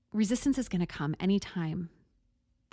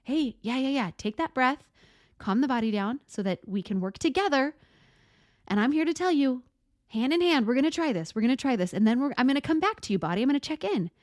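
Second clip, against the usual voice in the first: higher, coaxing, reassuring voice; encouraging mind; 6 semitones higher than usual. Pretend. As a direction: talk the body along like a gentle coach. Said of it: "our mind being like".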